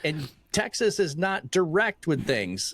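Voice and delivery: imitated wife's scolding. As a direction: scold a husband, imitating his wife. Wife voiced scolding him.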